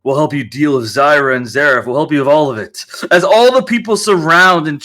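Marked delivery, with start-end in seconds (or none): 0.0-2.8 a hint of a grateful older man; grateful Owl Man. The Owl Man thanks Rain.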